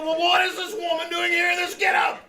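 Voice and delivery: high, indignant shout after stammering; outraged demand. Acted. Principal demanding why a dancer is in his office, outraged shout. Boss confronts secretary over dancer.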